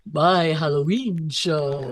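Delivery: a light Deanna Troi impression, slow and drawn out; hint of Deanna Troi, said slowly. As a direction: lightly voice Counselor Troi, stretching each word. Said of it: "that's my Deanna Troi voice".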